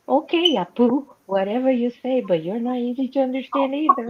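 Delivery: teasing the agent with a put-on Apu voice; mocking Apu. To the customer service agent, a mock Apu voice. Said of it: "I was like this".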